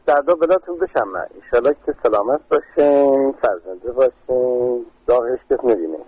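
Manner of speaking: Persian with a Kerman regional accent; Kermani accent. Shown as a demonstration. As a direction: offer blessings in a Kermani accent. (لهجهٔ کرمانی)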